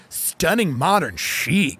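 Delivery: very slow, savoring each word; drawn-out listing blurb; hammed-up real estate voice; mock realtor gush. Contrasting choices, realtor voice.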